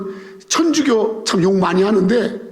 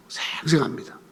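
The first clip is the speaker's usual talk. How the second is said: soft, low, stretched 생 for vividness; hushed emphasis; 5 semitones lower, 8 dB quieter than usual. Shown as a demonstration. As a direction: drop to a near-whisper on 생생합니다. Repeats the word hushed for emphasis.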